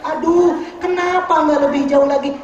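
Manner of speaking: mild mock wail of regret; imitated cry. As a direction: act out a regretful cry, without full force. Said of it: "Maka dia teriak".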